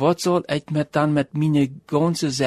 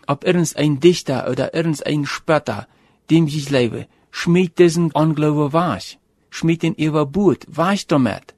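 preaching at full force. Acted. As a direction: hammer home the call to repent. Preacher appeals to congregation.

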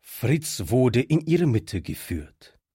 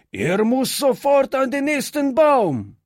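furious demand; 12 semitones higher than usual. A narrator's reading. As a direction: whip the gang up for a lynching. The vagabond demands a hanging. (ein Strolch fordert hoch und laut vor der Bande die Hinrichtung)

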